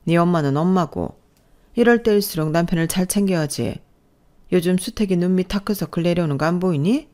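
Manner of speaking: lightly voiced reproachful mother-in-law; nagging mother-in-law. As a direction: needle her with pointed questions. (은근히 타박하는 시어머니)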